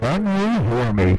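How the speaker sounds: distorted, muffled through the line; garbled wah-wah voice; muffled Charlie Brown adult voice. Real, not acted. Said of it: "he sounds like the guy from Charlie Brown".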